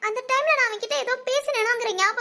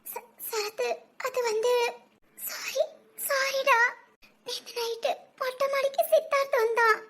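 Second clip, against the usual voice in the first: crying; 3 dB quieter than usual. Acted. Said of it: "அழாதடி, எதுக்கு அழுகுற?".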